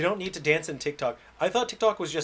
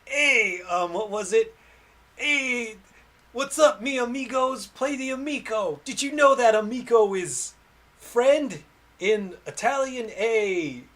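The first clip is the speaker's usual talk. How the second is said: much higher, louder, stereotypical Italian showman; bad Tommy Tallarico impression; 10 semitones higher, 8 dB louder, slower than usual. Vlogger doing a bad pitchman impression, much higher and louder. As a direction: ham it up like a cheesy pitchman. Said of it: "That's a really bad impersonation".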